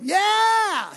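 high, loud whoop of joy; triumphant yell. Acted. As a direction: burst out cheering. Gideon exults from winepress.

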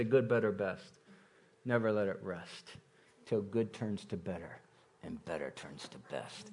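low, hushed coach talking through his teeth; Coach Dan Hawks. Retold or imitated. Pastor imitating his coach before a game, low through the teeth. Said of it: "I'm gonna say it like he'd say it".

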